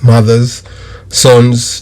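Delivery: normal talking voice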